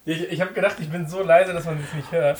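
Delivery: distant, faint voice off mic; speaking from across the room; far from mic. Real, not acted. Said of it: "das Mikrofon ist weit weg".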